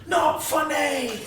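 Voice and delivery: high, slow, loud indignant yelp; John Mulaney impression. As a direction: drag it out, mock outraged. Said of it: "all I've heard in my head is John Mulaney going".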